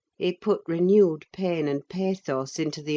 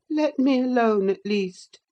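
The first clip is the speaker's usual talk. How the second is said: higher, cross dismissal; peevish boy; 7 semitones higher, 4 dB louder than usual. Acted. Linton wants his cousin to leave him, high peevish voice. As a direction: send her off in a high, sulky voice.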